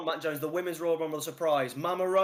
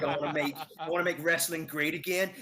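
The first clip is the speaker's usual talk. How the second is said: a lightly voiced Trump, American accent, not much changed; half-hearted Trump-style American accent, selling it to the guys; Donald Trump impression. Showing his weak American accent, a light Trump-style American. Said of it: "like, Donald Trump".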